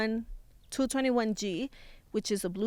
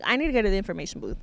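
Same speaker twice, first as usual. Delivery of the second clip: fast, impatient rush through it; hurried, exasperated repeat; rushed frustrated; much faster than usual. Retold or imitated. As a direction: blurt it out fast like you've had enough. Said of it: "he was being kind 'cause I'm like".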